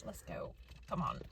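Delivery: straining to twist a jar lid; grunting with effort; opening a stuck jar. Real, not acted. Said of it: "I can't get the jam jar open either".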